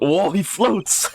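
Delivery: high, drawn-out real amazement; stretched-out astonished exclamation; amazed. Real, not acted. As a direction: marvel at it, slowly and high. Amazed at floating character on screen.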